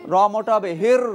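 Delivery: হির with a thick, full র and a loud lift; heavy র in হির. Shown as a demonstration. Teacher stresses the heavy র to the class. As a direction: make the র in হির heavy and round.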